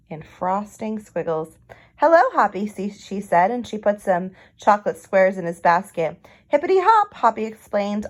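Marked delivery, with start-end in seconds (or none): 2.0-2.7 Aunt Sassafras greeting. Acted. 6.5-7.1 high, loud hippity hop; sing-song bunny cheer; little rabbit bursting with a plan; bouncy bunny voice. Acted. Hoppy explains cheerfully.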